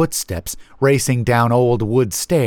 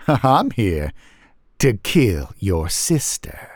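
slow, hazy menace; Stick Man; slower than usual. A narrator's reading. Stick Man threatening the narrator's sister, slow hazy voice. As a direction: draw the threat out slowly.

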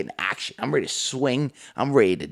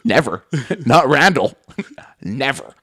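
mock tough guy; 2 semitones higher, 4 dB louder than usual.

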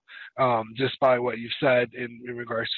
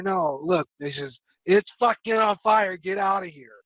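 urgent shout; 6 semitones higher, 4 dB louder than usual. Retold or imitated. Urgent warning about a fire.

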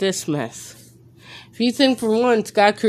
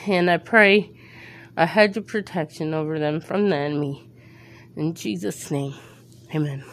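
prayer. Acted. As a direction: pray it out, fervent then hushed. Opens the podcast with prayer.

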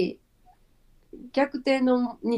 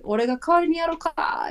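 Honda; 7 semitones higher than usual. Retold or imitated. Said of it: "本田さんの方が".

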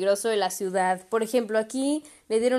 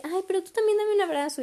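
higher, sweet pleading mimic; mimicking Daniel; 10 semitones higher than usual. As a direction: play the clingy guy asking for a hug. Imita a Daniel pidiendo abrazo. (imitando a Daniel, más agudo y meloso)

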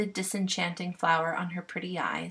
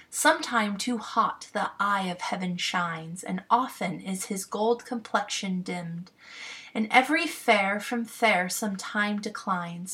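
measured, stately sonnet reading; poetry reading. Acted. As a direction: recite the sonnet with care. Reads a Shakespeare sonnet.

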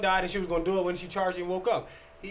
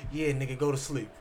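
menacing low quote; 6 semitones lower, 6 dB quieter than usual. Retold or imitated. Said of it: "all I hear is".

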